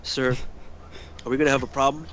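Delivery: measured, level voice with a pause after "Sir"; calm security guard. Retold or imitated. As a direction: imitate an unruffled guard checking for trouble. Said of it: "security guard just being calm".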